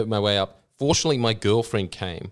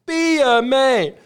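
high, slow, louder put-on voice; girlfriend's firm voice; 13 semitones higher, 6 dB louder, slower than usual. Girlfriend telling him to be a man, high and slow. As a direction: command it, deliberately. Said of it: "then she just says".

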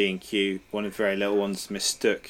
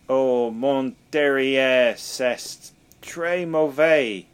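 slow, hammed-up French accent, higher and louder; mock French accent; 4 semitones higher, 5 dB louder, much slower than usual. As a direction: ham up a fake French accent, drawn out. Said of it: "so much worse".

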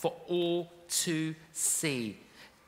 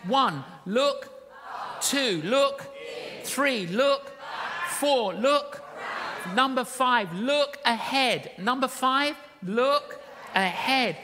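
calling out points; 3 semitones higher, slower than usual. Real, not acted. Preacher counting points to congregation.

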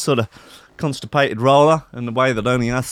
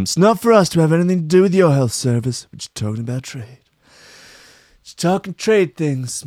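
mock Trump; 5 semitones higher than usual. Mocking Trump on trade talk, lightly voiced rambling. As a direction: drift into rambling Trump mumble. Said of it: "Trump quote continues".

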